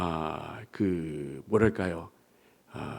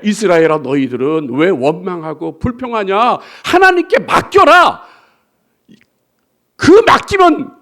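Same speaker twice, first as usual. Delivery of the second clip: God speaking to Israel; 2 semitones lower, 3 dB louder than usual. Acted. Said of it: "그렇게 지금 말씀하고 있는 거예요".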